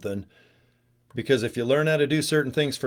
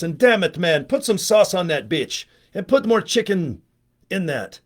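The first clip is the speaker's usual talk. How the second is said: put-on stereotypical Italian accent; 4 semitones higher than usual. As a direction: ham up a stereotypical Italian cook talking about sauce. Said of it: "You got to talk like this".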